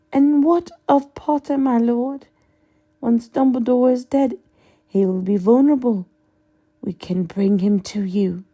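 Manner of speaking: high, eager fanatic voice; Bellatrix voice. Acted. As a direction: pitch it high and hungry.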